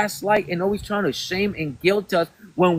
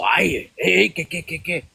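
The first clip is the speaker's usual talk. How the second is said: mock alarm. Mocking Mexicans alarmed by Haitian.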